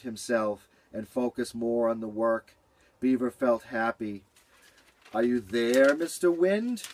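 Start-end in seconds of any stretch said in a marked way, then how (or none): 5.1-6.8 calling out. Acted. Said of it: "Beaver called into the air".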